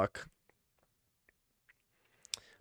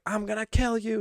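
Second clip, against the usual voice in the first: mock screaming; 11 semitones higher than usual. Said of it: "she's just, like, screaming".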